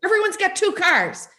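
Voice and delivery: put-on high, fast grumbling old man; old Italian grandpa. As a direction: crank about the country like a grandpa. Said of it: "my old grandpa Joey, who was Italian".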